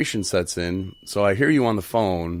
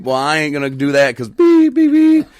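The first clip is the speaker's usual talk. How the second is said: louder, higher mock angry line ending in a beep; mock angry refusal; 8 semitones higher, 10 dB louder than usual. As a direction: snap back on the phone, then bleep. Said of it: "it was like".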